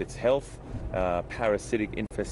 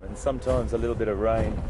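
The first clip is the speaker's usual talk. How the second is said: talking over a bumpy drive; on a bumpy road. Real, not acted. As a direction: voice jolted by bumps. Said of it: "sorry about the bumps".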